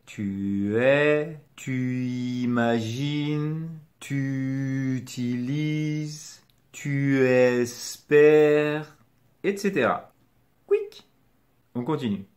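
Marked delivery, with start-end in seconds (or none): 0.1-9.0 very slow, vowels stretched into one another; linked without pause. Shown as a demonstration. Teacher giving examples of linking, slow gliding demonstration. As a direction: drag "tu" unbroken into each following word. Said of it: "tu vas lier les deux mots sans pause".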